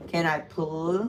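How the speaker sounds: slow, dragged stubborn request; drawn-out stubborn ask. Real, not acted. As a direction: stretch it out, refusing to say please. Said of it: "doesn't wanna say the word P L E A S E".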